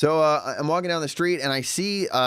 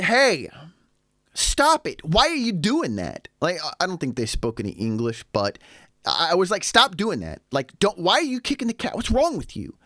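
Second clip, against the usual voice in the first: retold yelling; 9 semitones higher than usual. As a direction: shout them down, stop kicking that cat. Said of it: "I went and yelled and screamed at them".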